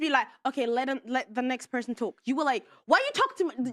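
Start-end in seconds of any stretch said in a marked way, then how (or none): 0.5-2.2 softer, lower hand-over to others; polite alternative. Shown as a demonstration. Guest showing the host a kinder way, soft and polite. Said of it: "it's the way that you were rude". 2.9-3.5 pitched-up mock rude interruption; imitating rude host. Guest replaying the host's interruption to her, rude imitation. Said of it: "it's the way that you were rude".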